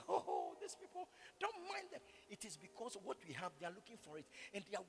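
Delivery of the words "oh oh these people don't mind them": dismissive retold remark. Voices dismissive talk about critics.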